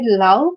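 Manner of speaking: love with its first sound stressed. Shown as a demonstration. Teacher showing root-word stress, love stressed on the L. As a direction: lean on the opening L of love. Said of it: "the stress is on more on L".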